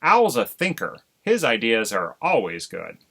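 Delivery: loud, quick, huffy self-defence. Acted. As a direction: save face before his wife. Husband defends himself huffily.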